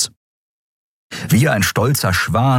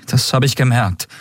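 higher, shaken reply; rattled captain; 6 semitones higher than usual. Acted. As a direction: Endriel gulping after the jolt. Endriel answers, shaken.

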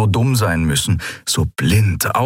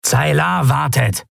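higher, slow-paced call; 7 semitones higher, slower than usual. A narrator's reading. Kratergesicht calls off his comrade Neran, calling out. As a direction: call out a pointed reminder. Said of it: "rief Kratergesicht".

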